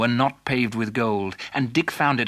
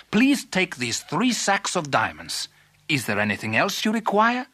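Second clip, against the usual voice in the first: generous king; 5 semitones higher than usual. Acted. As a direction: offer treasure grandly. King grants the reward.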